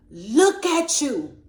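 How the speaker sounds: booming, slow father's voice; a stern father looming over his daughter; voice of God. Retold or imitated. God speaking to his daughter, slow and booming. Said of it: "what he said was".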